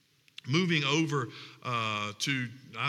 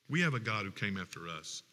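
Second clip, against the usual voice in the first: echoed back much softer and lower; softer repeat; 7 semitones lower, 7 dB quieter, faster than usual. Shown as a demonstration. Pastor repeating the point to the congregation, much softer. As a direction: let the repeat sink in quietly. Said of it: "repeated line".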